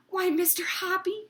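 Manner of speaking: high, rising happy exclamation; a pleased, surprised cry; delighted cry. Acted. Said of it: "she cried".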